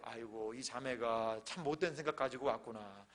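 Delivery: low, slow musing, then a firmer address; hint of earnest pastor. Pastor admonishing a woman who came to tempt him, mildly solemn. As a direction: lightly play the solemn counsellor.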